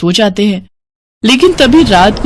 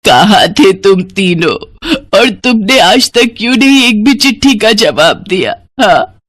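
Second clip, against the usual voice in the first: crying reproach; 2 semitones higher than usual. Acted. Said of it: "वो रोते हुए कहती है".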